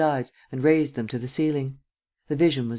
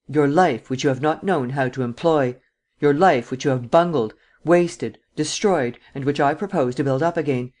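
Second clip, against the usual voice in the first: forceful; 3 dB louder than usual. Acted. Forceful persuasion.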